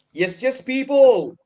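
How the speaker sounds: put-on Manc accent. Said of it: "I can somewhat do a Manc accent".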